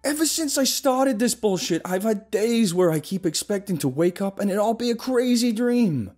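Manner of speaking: loud, high frantic rant; ranting yell. Acted. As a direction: rant at full volume, unhinged. Paranoid rant at friend.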